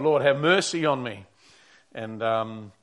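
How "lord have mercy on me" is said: mildly raised, pleading cry to the Lord; retold cry for help, moderately loud. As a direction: call out for mercy, a little louder. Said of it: "when he's crying out".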